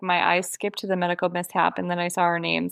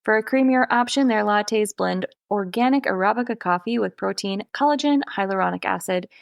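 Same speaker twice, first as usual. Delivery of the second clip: yawning. Real, not acted. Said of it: "yawning your way through this ad".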